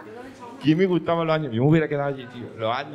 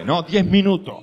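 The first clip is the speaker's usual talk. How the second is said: indignant; 6 semitones higher, 7 dB louder, slower than usual. Real, not acted. Repeats ten minutes indignantly.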